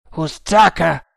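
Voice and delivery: grida il nome da lontano, a mani a coppa; chiamata gridata. Acted. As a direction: chiama forte attraverso la giungla. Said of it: "gridò il capitano, facendo una specie di portavoce con le mani". (grido di richiamo con le mani a portavoce)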